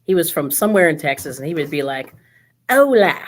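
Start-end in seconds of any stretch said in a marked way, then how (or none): 2.7-3.2 hammed-up Southern drawl on Spanish, slow; mock a Texan saying hola with a drawl. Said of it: "he had a southern drawl".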